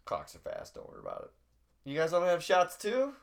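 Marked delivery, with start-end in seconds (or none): 0.0-1.9 mock whisper. Mock reassurance before presentation.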